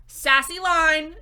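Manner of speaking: loud, slow, sassy line in a strong Latina accent with a laugh. Shown as a demonstration. Critic imitating the actress's comic line, sassy strong Latina accent. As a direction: punch it out in a strong Latina accent, full sass. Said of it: "but with a strong Latina accent".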